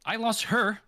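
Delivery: high, wild, exaggerated cry; over-the-top crazy. Shown as a demonstration. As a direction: go fully crazy on it. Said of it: "That's what I want".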